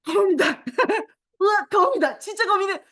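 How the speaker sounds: 숨 들이쉬고 높고 크게 거미다 외침; 미친 듯 신나게 과장된 놀람; crazy-lady surprise. Shown as a demonstration. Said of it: "단 미친 여자처럼 놀라는 거". (거미가 나오자 교사가 아이들에게, 미친 듯 과장된 놀람)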